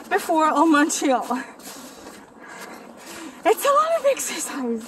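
panting while walking uphill; out of breath. Real, not acted. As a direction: talk between breaths after the climb. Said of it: "sorry if I'm out of breath right now".

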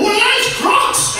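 very high, stretched-out panicked cry; Steve Irwin. Retold or imitated. Comedian flipping the stereo setting, high panicked Australian voice. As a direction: switch abruptly to slow, high-pitched alarm. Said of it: "It's got Hemsworth and Irwin".

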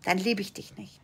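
cold love withdrawn in a whisper; hushed, low, withholding; whispered rejection. Acted. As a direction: whisper it as an acted parental threat. Voices parent withdrawing love.

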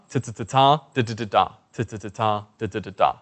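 short rhythmic tongue warm-up; tongue-tip drill. Shown as a demonstration. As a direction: demonstrate crisp ta and da syllables in rhythm. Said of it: "the tip of the tongue".

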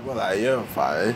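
ordinary talk

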